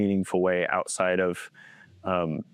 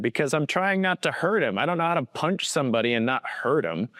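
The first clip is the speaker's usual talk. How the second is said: put-on mildly exasperated kid's protest, pitched higher; retold tearful protest; 5 semitones higher than usual. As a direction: plead a little higher, imitating your frustrated younger self. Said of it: "and I'm crying".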